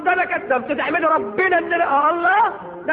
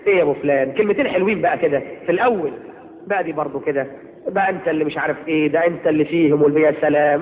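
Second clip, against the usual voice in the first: mock sweet wife; 9 semitones lower than usual. Wife sweet-talking her husband.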